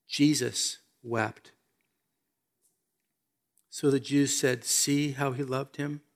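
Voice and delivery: measured, solemn Bible reading; scripture reading. Acted. Preacher reads the Lazarus story to the congregation, solemn scripture reading. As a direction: read the passage out soberly to listeners.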